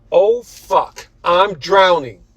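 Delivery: high, loud, slowed panicked cry; gasping as he sinks; frantic drowning shout. A narrator's reading. Leonardo drowning in canal.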